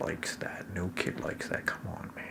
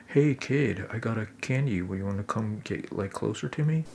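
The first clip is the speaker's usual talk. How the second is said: stranger danger; 3 semitones higher than usual. Retold or imitated. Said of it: "Stranger danger".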